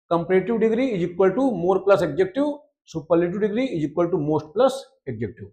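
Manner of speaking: slow, measured dictation; teacher dictating a grammar formula. Acted. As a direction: spell out each term for notes.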